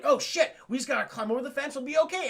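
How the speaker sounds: put-on high, laughing kid voice; a giggly scared child about to climb; mock panicked kid. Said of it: "And I'm like".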